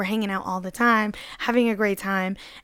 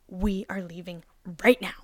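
dead serious. Retold or imitated. Friend at the door orders her to leave, serious. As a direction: imitate a friend who means it, without raising your voice. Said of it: "Mary is not the type to be very serious".

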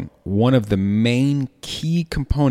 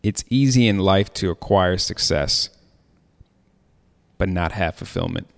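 quote reading. Real, not acted. Reads from his quote sheet.

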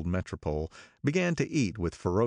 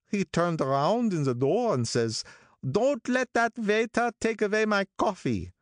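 put-on higher old man's voice, reminiscing; old gangster storyteller; 9 semitones higher, 3 dB louder than usual. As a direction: tell it like a mournful old racketeer. Wolfsheim finishes the Rosie story.

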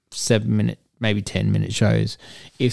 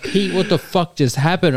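stunned whisper-shout; 7 semitones higher than usual. Retold or imitated. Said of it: "I was just like".

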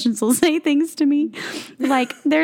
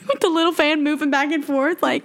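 put-on old Southern church lady; 2 semitones higher than usual. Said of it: "an old Southern, Baptist woman".

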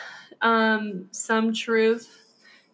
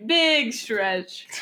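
slow cooing dog talk. Retold or imitated. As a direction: coo it slowly like praising a dog. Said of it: "as I would say to our dog".

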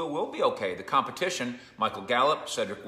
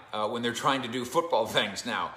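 laughing. Real, not acted. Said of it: "I don't know why I'm laughing".

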